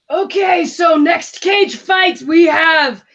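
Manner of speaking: loud, rough cage fight announcer; gravelly announcer voice. Acted. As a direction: bellow it like a smoker announcer. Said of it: "Rough, gravelly voice, kind of a smoker".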